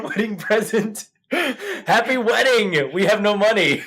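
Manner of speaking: laughing through the words. Real, not acted. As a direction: crack up while saying it. Laughing at cheap present.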